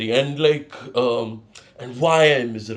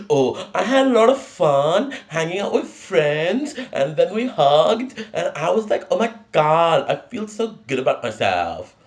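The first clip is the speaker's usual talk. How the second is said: mock happy person; 4 semitones higher, 3 dB louder than usual. Mocking a boring happy person.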